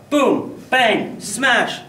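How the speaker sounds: high, loud shouts, one crash at a time; punchy, exclaimed sound effects; loud crash imitation. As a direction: shout out the sounds of things falling. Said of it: "Sorry, that's a little loud".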